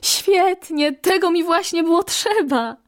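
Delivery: joyful call. Acted. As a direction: soar up and shout for joy. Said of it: "wołając".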